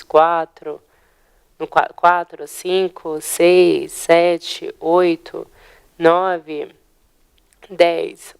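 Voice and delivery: each number set apart in a steady count; slow classroom count, one number per beat; counting syllables aloud. Shown as a demonstration. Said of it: "pra gente visualizar bem".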